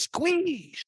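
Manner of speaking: high, drawn-out order; high, insistent command; commanding eagle. Acted. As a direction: urge it on with a long high-pitched word.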